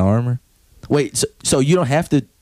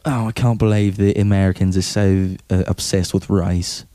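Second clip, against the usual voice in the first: put-on British accent; 4 semitones lower than usual. Comic mocking the English as appalled by Americans, mock British accent. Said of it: "in England's like".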